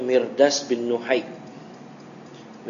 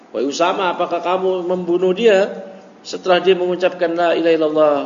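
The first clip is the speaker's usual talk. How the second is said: raised, pressing voice, a bit louder; cornering question; 4 semitones higher, 4 dB louder than usual. Retold or imitated. Prophet pressing Usama about the killing, cornering and insistent. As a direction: push him into a corner with the question. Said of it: "itu memojokkan".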